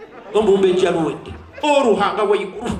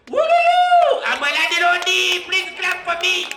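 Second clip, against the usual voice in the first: proud excitement; 9 semitones higher, 3 dB louder than usual. Real, not acted. Speaker boasts to the crowd he owns the house, excited. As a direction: crow it to the crowd.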